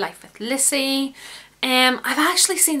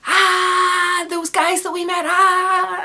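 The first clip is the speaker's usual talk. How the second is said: higher, louder squeal of excitement; excited screaming; 8 semitones higher, 4 dB louder, much slower than usual. Retold or imitated. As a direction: squeal it down the phone to a friend. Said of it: "just kept screaming down the phone".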